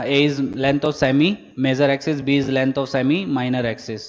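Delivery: slow, deliberate classroom dictation; teacher reading notes aloud at writing pace. Shown as a demonstration. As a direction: spell it out word by word so students can write it down. Dictates definitions again.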